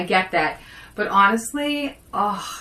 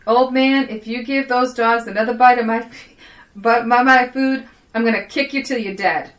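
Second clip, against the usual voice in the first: lightly put-on Southern-tinged Italian accent; a hint of a jokey Italian accent. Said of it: "this is my Italian accent".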